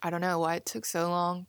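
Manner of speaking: talking through a laugh; amused, grinning while speaking. Real, not acted. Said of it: "I'm smiling as I say this 'cause I'm laughing".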